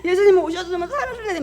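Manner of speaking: very high, hammed-up wail; acted sobbing. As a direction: imitate a sister sobbing loudly for her brother. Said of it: "그러면서 막 울어". (오빠를 부르며 우는 흉내)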